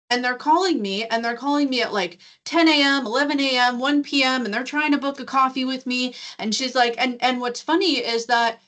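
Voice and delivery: heated rant. Retold or imitated. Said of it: "she is heated, she's rolling".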